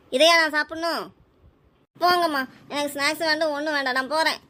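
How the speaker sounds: put-on mildly angry, indignant child; angry refusal. Child refusing mother's offered snack, angry. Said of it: "நீ ஏம்மா கோவமா இருக்க?".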